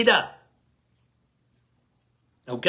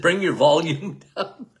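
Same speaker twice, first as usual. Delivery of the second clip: can't keep a straight face, chuckling mid-line; laughing through it. Real, not acted. Retelling the patient's request to the audience, laughing. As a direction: quote broken by a real laugh. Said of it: "I started laughing".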